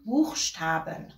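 Buchstaben said slowly in German, each syllable clear; slow teacher demo of Buchstaben; German word demo. Shown as a demonstration. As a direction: pronounce Buchstaben slowly for learners.

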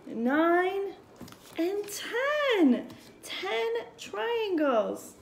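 put-on teaching a child to count. Shown as a demonstration. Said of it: "I want you to count with me".

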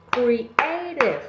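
"Creative" divided into distinct beats; "Creative" measured out beat by beat; syllable by syllable. Shown as a demonstration. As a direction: separate the syllables of "Creative" for counting. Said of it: "to identify how many syllables".

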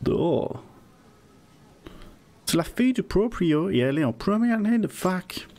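put-on a loose Russian accent in French. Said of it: "je sais pas faire un accent russe, c'est un peu transylvanien".

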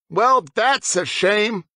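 put-on slow, scornful vampire boy; disgusted scowl. A narrator's reading. Harding scowling at James in disgust, slow. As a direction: drag it out in mild disgust. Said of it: "he scowled in disgust".

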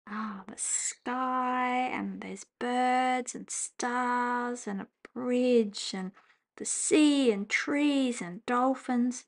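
slow whispered marvel; hushed wonder. Real, not acted. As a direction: linger over each picture in awe. Marvelling at chocolate design.

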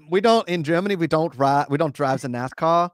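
hammed-up German accent, lightly done; mock German accent. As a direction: play a German driver in a jokey German accent. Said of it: "Yeah, see, that's good".

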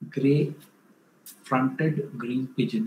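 Gray-fronted green pigeon spelled out slowly, word by word; slow, careful repeat of Gray-fronted green pigeon; slow clear naming. Shown as a demonstration. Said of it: "uh, no, gray-fronted green pigeon".

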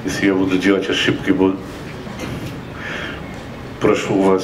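usual speaking voice

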